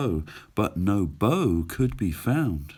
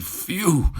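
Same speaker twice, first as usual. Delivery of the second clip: dog's relieved phew; 8 semitones higher, 3 dB louder than usual. Acted. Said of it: "said the dog".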